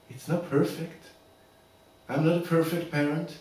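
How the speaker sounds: soft, measured, with long pauses; subdued heartfelt plea. Acted. Father pleading to keep his son Billy, subdued and heartfelt. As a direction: quietly make your case as a loving father. Father's monologue in custody case.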